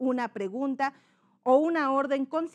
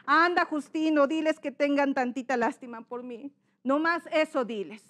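raised-voice begging for pity; pleading character; 2 semitones higher than usual. Shown as a demonstration. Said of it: "son dos personajes". (súplica del padre pidiendo lástima)

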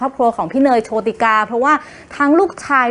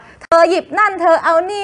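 imitating a demanding wife, pitched higher; bossy pregnant wife; 6 semitones higher than usual. Host imitating a pregnant wife ordering her husband. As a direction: playfully order him about, higher. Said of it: "เป็นช่วงที่เราจะสามารถบอกว่า".

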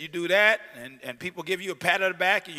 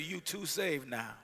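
mock scold; 3 semitones lower, 8 dB quieter, slower than usual. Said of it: "friends that will tell you".

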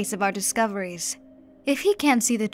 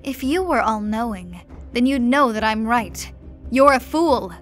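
condemned duke screaming at the emperor, building to a scream; 3 semitones higher, 6 dB louder than usual. Acted. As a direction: hurl the insult at the emperor at full voice. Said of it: "he screamed".

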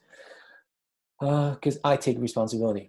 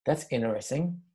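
calm observing; slower than usual. Shown as a demonstration. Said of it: "You distance yourself".

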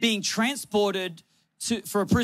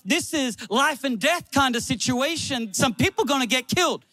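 urgent, emphatic sermon delivery; punchy, raised preaching voice; impassioned preaching; 3 semitones higher than usual. Real, not acted. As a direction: drive the warning home like a preacher.

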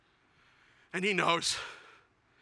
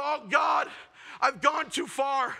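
slow hammed-up cry of dismay; theatrical slow horror outcry; mock horrified shout; 3 semitones higher, slower than usual. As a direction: wail it like a guilty villain. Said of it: "I go".

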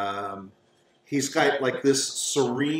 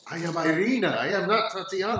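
higher voice insisting on who she is; protesting young woman; 5 semitones higher, faster than usual. Acted. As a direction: protest in a high, quickening voice. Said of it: "She says".

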